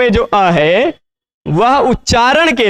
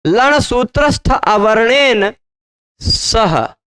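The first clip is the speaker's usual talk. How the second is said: reciting the sutra; slower than usual. Shown as a demonstration. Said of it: "लण सूत्र में कहीं अवर्ण दिखाई".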